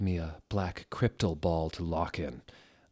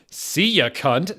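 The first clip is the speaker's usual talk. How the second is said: much higher, louder mocking goodbye; mock teacher farewell; 10 semitones higher, 10 dB louder, slower than usual. The teacher sending her student off, with a hammed-up rude farewell. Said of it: "said Professor Sinister".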